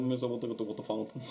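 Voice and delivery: mimicking a Portuguese accent in English; put-on Portuguese accent, for laughs; Jonas. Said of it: "No, Jonas".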